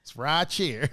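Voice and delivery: lightly imitated Southern accent; mock Southern drawl. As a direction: poke fun with a Southern twang. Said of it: "why you making fun of us".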